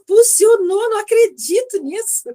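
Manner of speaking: a burst of happy amazement, half acted; retold delight. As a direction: relive the joy of it working. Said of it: "eu ficava toda feliz".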